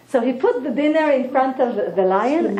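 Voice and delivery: ordinary talk, nothing marked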